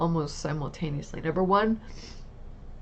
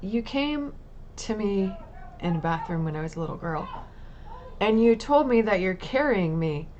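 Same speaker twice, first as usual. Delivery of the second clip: retold tearful prayer. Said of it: "um, said".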